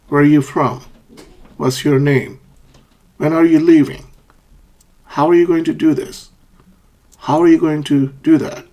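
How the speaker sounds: WH-question ending on a fall, as in "do that"; teacher modelling falling questions; falling question intonation. Shown as a demonstration. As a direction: let the pitch drop at the end of "from", "name", "leaving". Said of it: "asked with a falling intonation".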